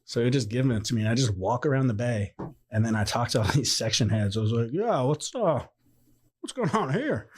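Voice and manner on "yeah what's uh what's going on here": innocent question. Retold or imitated. Retold himself asking section heads.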